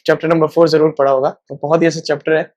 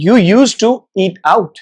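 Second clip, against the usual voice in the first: slow model sentence; 2 semitones higher, much slower than usual. Shown as a demonstration. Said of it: "कैसे बोलेंगे?".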